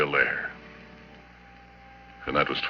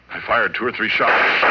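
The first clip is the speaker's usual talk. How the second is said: tense; 5 semitones higher, 7 dB louder than usual. Acted. Narrating gunfire in panic.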